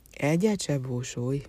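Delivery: slow, gentle comfort; consoling. Acted. The white horse comforts Hozé before the boiling oil, slow and gentle. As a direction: soothe him slowly like a faithful friend. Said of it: "vigasztalta a ló".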